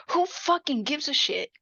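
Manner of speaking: indignant, insistent encouragement, lightly acted; emphatic pep talk. Mom bucking up her published daughter, emphatic pep talk. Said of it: "her mom gives her, like, this pep talk".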